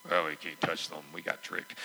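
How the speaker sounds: sarcastic low grumble of defeated leaders; mock glum quote. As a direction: play the tricked leaders grumbling. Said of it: "I'm sure they said that very happily".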